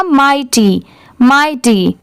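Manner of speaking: माइटी blended, repeated with falling ends; whole-word pronunciation. Shown as a demonstration. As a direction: join माइ and टी into माइटी. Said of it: "पूरा मिला देंगे तो क्या हो जाएगा?". (माइटी मिलाकर साफ़ बोलना)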